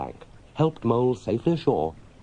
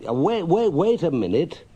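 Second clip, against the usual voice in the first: high, louder, hurried stop; hasty Rat; 8 semitones higher, 4 dB louder than usual. Acted. Rat stopping Mole to fetch the basket, high and hurried. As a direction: hold him back in a rush.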